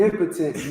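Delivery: "impotent" said IM-puh-tent; stress on the first syllable. Real, not acted. Reader retries the verse, "impotent" as IM-puh-tent. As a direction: hit IM in "impotent", reduce the middle. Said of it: "that's how they say it".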